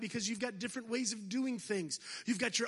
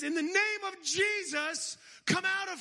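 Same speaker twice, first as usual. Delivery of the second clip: annoyed command; 6 semitones higher than usual. Retold or imitated. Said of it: "he turns around annoyed".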